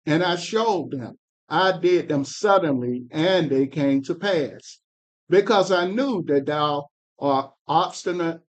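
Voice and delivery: measured, solemn Bible reading; scripture reading. Acted. Reader to study group, solemn scripture reading. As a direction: read the prophet's words with weight.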